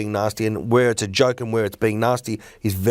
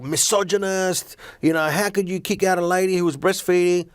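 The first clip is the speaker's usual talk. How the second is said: outraged online commenters; 6 semitones higher than usual. Acted. Comedian imitating online commenters upset over the ejection, mock outrage. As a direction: imitate indignant people posting comments. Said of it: "some people are like".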